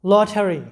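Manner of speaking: লটারি with the middle sounded ঠার; pronunciation demo. Shown as a demonstration. Teacher models লটারি for students, pronunciation demo. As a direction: say লটারি as lo-tha-ri, aspirated t. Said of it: "এরকম সাউন্ডটা হবে".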